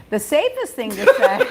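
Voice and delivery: giggling while reading the joke list; words breaking into laughter; laughing through it. Real, not acted. Host reading joke list aloud, laughing.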